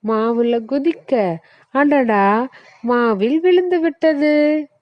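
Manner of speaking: comic dismay at falling in the flour; pumpkin's mishap voice. Acted. Pumpkin falls into the flour, comic high voice. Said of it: "பூசணிக்கா".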